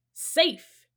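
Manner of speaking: high, loud cry of relief; joyful shout. A narrator's reading. Annie cheers as the sub bursts out of the water, high joyful shout. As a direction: shout out that you made it. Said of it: "shouted Annie".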